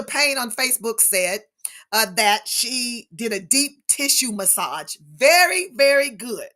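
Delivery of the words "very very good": high, loud burst of praise; real delight at the news; excited praise. Real, not acted. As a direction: cheer the viewer on. Praising a viewer's self-care.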